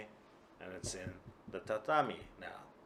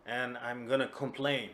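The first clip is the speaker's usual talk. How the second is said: put-on drunken insistence; 2 semitones higher, 8 dB louder than usual. Kuma insists on complaining.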